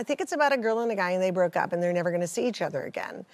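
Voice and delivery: put-on fast, eager kid's answer; twelve-year-old me. Woman recalling her childhood answer to mom, quick and eager. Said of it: "I'm a twelve-year-old or something".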